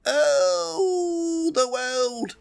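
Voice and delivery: high, pained dying man's voice; wounded soldier gasping. Acted. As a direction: gasp it out like you're bleeding out.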